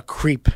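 creep, said with a long ee vowel; mispronounced crepe. Shown as a demonstration. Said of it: "always called a crepe a creep".

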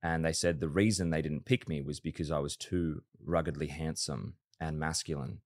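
low, soft mock-serious retelling; underplay the boast, taking the piss; deadpan sarcasm. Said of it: "obviously it was sarcastic".

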